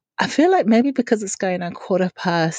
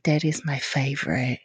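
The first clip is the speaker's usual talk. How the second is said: a hint of a six-year-old daughter, softer and lower; quiet lower daughter voice; 5 semitones lower, 6 dB quieter than usual. Mum imitates her daughter answering a quiz, quietly. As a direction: say it plainly, as a small child would. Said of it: "the feedback is".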